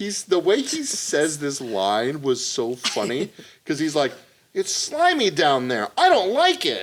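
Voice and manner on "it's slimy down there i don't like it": put-on high, loud, whiny kid voice. Retelling a funny line from a fishing scene, imitating a whiny kid. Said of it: "Like a little whiny bitch".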